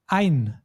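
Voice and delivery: ein drawn out slowly and set apart; stressed prefix. Shown as a demonstration. Teacher splitting einkaufen for a learner, ein slow and stressed. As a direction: isolate ein as the stressed syllable, slow and firm. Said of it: "the stress is always on the syllable, on the first syllable".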